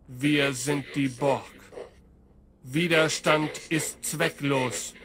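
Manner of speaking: metallic robotic voice; ring modulator. Acted. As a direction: speak as a metallic machine. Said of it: "mit einer metallischen Stimme".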